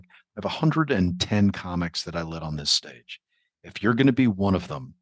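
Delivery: measured imitation of an uptight professor; Lucian Hold. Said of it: "very professorial".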